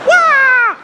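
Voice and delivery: high loud kung fu yell; martial arts cry. Retold or imitated. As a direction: shriek a karate kick sound. Mock kung fu kick cry.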